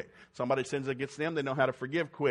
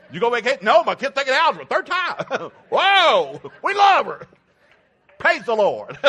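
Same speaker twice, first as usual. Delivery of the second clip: high, loud whooping praise; excited shouting; 10 semitones higher, 15 dB louder, slower than usual. Real, not acted. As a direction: whoop it up with the congregation. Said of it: "Are we excited?".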